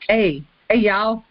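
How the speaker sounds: playful Southern twang greeting; Southern accent. Retold or imitated. Showing Ken how his accent rubs off, Southern twang. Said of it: "I start hearing your accent".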